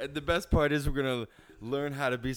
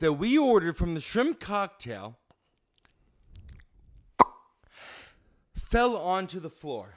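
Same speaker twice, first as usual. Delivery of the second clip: Karen complaining. Acted. Karen skit complaining to waiter.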